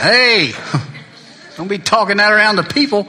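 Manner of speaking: laughing protest. Retold or imitated. Friend recalls his arrest.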